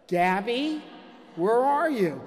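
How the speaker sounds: retold dad calling, not yet shouting; restrained first call. Father calls daughter while following the marker, restrained. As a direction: call out questioningly, holding the volume back. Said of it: "a little louder".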